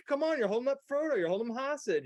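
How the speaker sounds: high, fast exasperated voice; mock viewer annoyance. Viewer complaining about Faramir holding Frodo, high and fast. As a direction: rattle it off, fed up. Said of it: "you're like".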